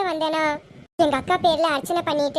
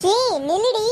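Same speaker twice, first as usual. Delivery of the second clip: calling out; 5 semitones higher than usual. Acted. Calling after the departing woman.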